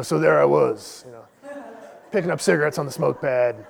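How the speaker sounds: lightly mocked young marine war-story voice; John Rambo swagger. Young Marine bragging to a civilian, mock Rambo swagger. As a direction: drag out the opening like a self-styled war hero, half mocking. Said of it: "might as well be John Rambo".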